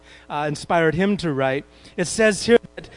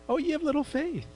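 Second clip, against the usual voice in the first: gentle rebuke; 9 semitones higher, 7 dB quieter than usual. Retold or imitated. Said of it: "and he said".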